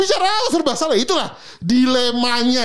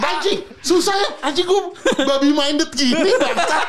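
laughing; 5 semitones higher than usual. Real, not acted. Laughing at his own mishearing.

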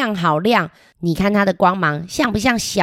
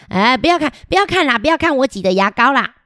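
embarrassed protest; 5 semitones higher, faster than usual. Acted. Embarrassed child hides toothpaste.

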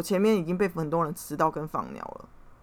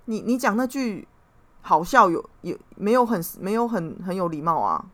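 indignant retort. Retold or imitated. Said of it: "然后我就说".

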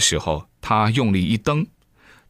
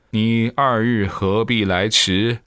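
slow, lightly voiced old sage scolding; a hint of an amused old immortal, slow; old immortal chiding; slower than usual. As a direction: tease him slowly like a knowing elder. Immortal laughs then scolds.

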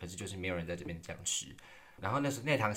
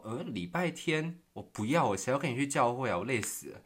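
blunt refusal; 4 semitones higher than usual. Retold or imitated.

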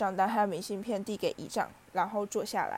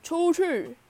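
higher, much louder furious roar; 8 semitones higher, 7 dB louder than usual. A narrator's reading. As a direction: bellow the order at both boys. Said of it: "德斯里姨丈怒吼". (姨丈暴怒地大吼出去)

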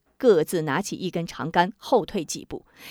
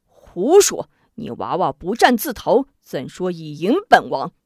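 angry retort; 3 semitones lower, 5 dB louder than usual. Acted. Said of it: "应提顿时火起".

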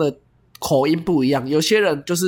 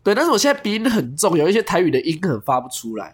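talking with a stuffy nose; blocked nose, nasal cold voice; 2 semitones higher than usual. Real, not acted.

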